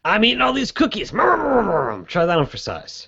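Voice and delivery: talking through a mouthful; mouth full. Acted. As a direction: chew the words like cookies.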